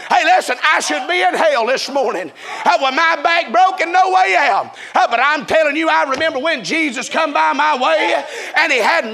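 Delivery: full-force, driving revival sermon; impassioned preaching. Real, not acted. Preacher urging congregation that nobody is like Jesus, impassioned. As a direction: preach it hard, stretching out the big lines.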